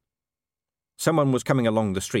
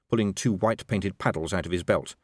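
plain reading voice

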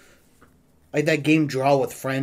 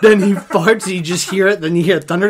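excited; 7 semitones higher, 10 dB louder than usual. Real, not acted. Excited retelling of a Family Guy bit.

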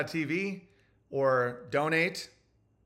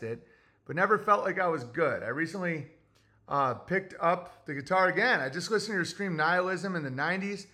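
put-on old-timey voice. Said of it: "Read an old-timey voice".

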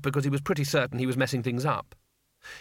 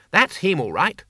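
cheerful call; 5 semitones higher than usual. Acted. Two Flower calling out to the stuck wizard, glad. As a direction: call across the mud, delighted.

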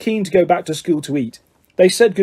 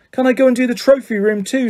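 pleading, much higher; desperately; 7 semitones higher than usual. A narrator's reading. Harry begs McGonagall for a different detention, desperately. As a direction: beg to be let off. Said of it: "said Harry desperately".

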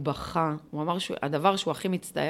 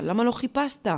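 a mild retold plea, slightly higher; pleading question; 6 semitones higher than usual. Daughter asking her dying father why, in a mild plea. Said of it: "מבקשת ממנו תשובות".

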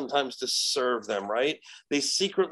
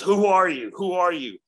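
higher, louder challenge in the demon's role; possessed girl's demand; 4 semitones higher, 5 dB louder than usual. Retold or imitated. Demon challenges the exorcist, high insistent demand. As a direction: throw the question out high and insistent. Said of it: "And she goes".

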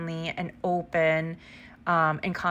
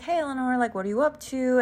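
friendly coworker voice; 6 semitones higher, faster than usual. Retold or imitated. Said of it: "he's like".

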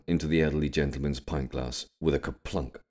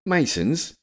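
high, rising shout, building louder; incredulous shout; 6 dB louder, much slower than usual. A narrator's reading. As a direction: shout it in outraged disbelief, pitch leaping up. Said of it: "pointing towards William and shouting".

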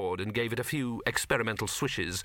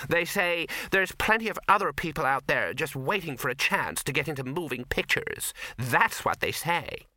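a hint of a fed-up young actress, slowing at the end; lightly voiced fed-up actress; 4 semitones higher than usual. The actress grumbling to Victor about the studio, mildly bitter. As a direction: vent your grievance to a stranger, a touch bitter.

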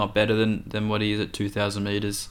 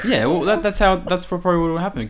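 laughing; 9 semitones higher, 6 dB louder, faster than usual. Real, not acted. Laughing reply.

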